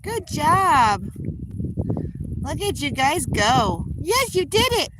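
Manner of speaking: very high, lilting praise; high excited praise. Real, not acted. Owner cheering geese that finally swim: very high praise. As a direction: celebrate them like a proud parent.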